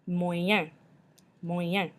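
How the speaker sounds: Moyen ending in a nasal N. Shown as a demonstration. Teacher models French for medium, nasal ending on Moyen. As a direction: let the end of Moyen go into the nose. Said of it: "got that nasally N at the end".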